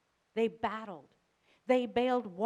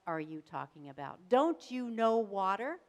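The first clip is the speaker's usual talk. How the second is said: incredulous boatmates; 3 semitones higher, 4 dB louder than usual. Acted. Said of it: "imagine the rest of the people".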